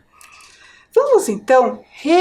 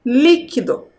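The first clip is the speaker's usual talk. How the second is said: "Líquido" with a firm first syllable; stress on LÍ. Shown as a demonstration. Teacher reads the word aloud for children, stressing LÍ in "Líquido". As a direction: lean on the LÍ of "Líquido". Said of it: "É a sílaba li".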